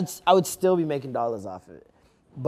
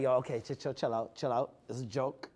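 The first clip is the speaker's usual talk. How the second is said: softer, lower, hushed calming; retold placating; 4 semitones lower, 11 dB quieter than usual. Son retelling how he calmed his mom, quietly placating. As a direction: talk someone down under your breath, retelling it.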